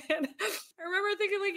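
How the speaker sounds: laughing through tears; teary laugh. Real, not acted. Recalling her boss crying, teary laughing voice.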